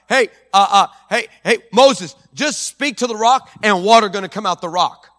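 a hint of a casual offhand God; God casually giving Noah and David impossible orders; God improvising. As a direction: toss out orders like an afterthought. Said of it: "making this up as he goes".

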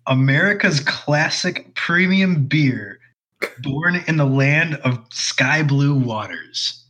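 slow, grand commercial tagline read. Acted. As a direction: read the can like a beer ad. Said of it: "tagline bullshit on the can".

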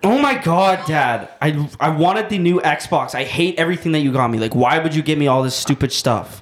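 put-on lightly whiny, complaining kid; spoiled brat. Son complaining to dad about Christmas gifts, mild spoiled-brat whine. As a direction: play a bratty son let down by presents. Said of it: "Shibes is a spoiled brat".

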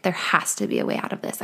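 unvoiced whisper of desperation; quiet desperate whisper to herself; whispered despair. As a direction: breathe it out as a hopeless whisper. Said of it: "I was like".

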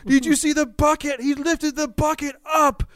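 put-on high, slow, eager little-kid voice; excited toddler. Son tells dad about the front loader, high and wide-eyed. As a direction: gush like a thrilled small boy.

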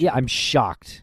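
slow mock shock; heavily sarcastic. Cohost pretending surprise at Jen's police troubles, sarcastic. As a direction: feign being shocked, drawn out. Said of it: "That was heavily draped in sarcasm".

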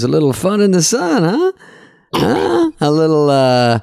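high-pitched, slightly German waiter voice; dubious German accent. Retold or imitated. Waiter teasing a regular about pool photos, high off-target German accent. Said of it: "Is this your German accent?".

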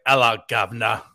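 light imitation of a Cockney working man; mock Cockney accent. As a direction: toss off a cheery Cockney hello. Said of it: "working in a coal mine British".

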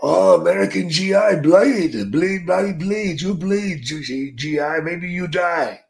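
mocking Japanese accent, the last words slow. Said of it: "I got this old Japanese doctor".

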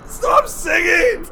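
slow, high, loud, cracking plea; desperate yell. Acted. Yelling at the singing creature to stop. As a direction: beg them to stop.

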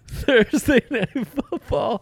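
high, slow hype announcer. Pretend. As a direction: call it like a TV intro. Announcing the game like TV.

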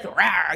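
a short cat-like growling rawr; playful rawr. Shown as a demonstration. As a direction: show the pounce growl. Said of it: "It has to be like".

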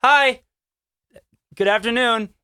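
high, loud "hi" to a passer-by; retold chirpy hello; polite greeting. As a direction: greet a stranger with sudden politeness. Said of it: "and I go".

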